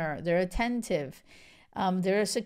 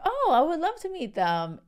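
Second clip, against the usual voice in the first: high-pitched imitation of a sweet boyfriend; imitating someone delighted to be introduced; sweet eagerness; 8 semitones higher, 4 dB louder than usual. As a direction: gush it sweetly, pitched well up. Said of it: "so sweet".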